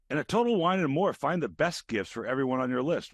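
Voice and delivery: host reads a holiday wine ad. Acted. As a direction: sell it, then rattle off the fine print.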